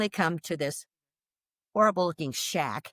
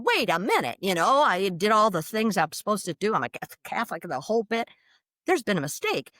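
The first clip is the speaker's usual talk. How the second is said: indignant; 3 semitones higher than usual. Retold or imitated. Arguing to herself that hell is a mistake, indignant. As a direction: protest a mistake, mildly angry. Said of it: "Then I really got mad".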